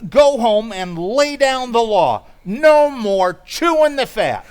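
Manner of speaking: firm pep-talk orders; rousing pep talk. Acted. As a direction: fire him up like a coach. Pal pepping Riley up.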